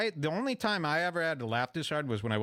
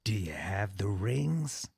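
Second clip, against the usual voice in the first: judge's knowing question; 6 semitones lower, slower than usual. Retold or imitated. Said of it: "when she goes".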